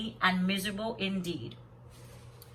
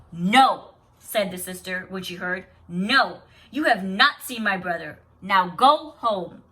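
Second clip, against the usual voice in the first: louder, firm, slow dismissal; stern; 6 dB louder, slower than usual. Acted. Invisible being's sister sending the lying sisters away, stern and loud. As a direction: shut them down with authority.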